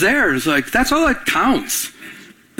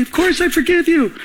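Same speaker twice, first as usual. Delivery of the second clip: bright reassurance; 11 semitones higher than usual. Retold or imitated. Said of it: "I go".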